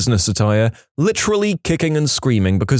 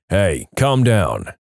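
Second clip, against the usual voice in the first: firm warning; 4 semitones lower, much slower than usual. Retold or imitated. Big man confronting an angry dad.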